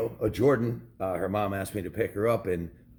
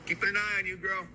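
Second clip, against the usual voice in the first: playful protective tease; 10 semitones higher than usual. Acted. Watching daughter from afar.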